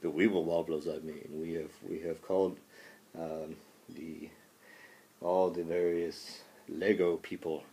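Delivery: a mock solemn call to arms, lightly voiced; Washington war speech. Washington answering Doctor Munsell with mock war rhetoric. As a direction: deliver a hammed-up presidential war address. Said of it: "President Washington, offer war rhetoric".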